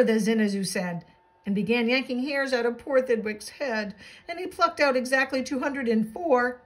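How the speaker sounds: lilting rhymed picture-book narration; animated bedtime-story reading; storybook read-aloud. A narrator's reading. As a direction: read a rhyming tale to children.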